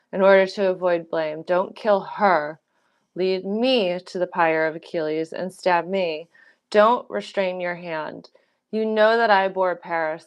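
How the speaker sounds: steady, earnest reading of Greek tragedy lines; dramatic play reading. Acted. Reading Hecuba's plea to Odysseus aloud, earnest.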